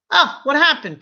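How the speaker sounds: high, alarmed mom; mother seeing her limping son, alarmed; worried question. Retold or imitated. Mother asks hurt son.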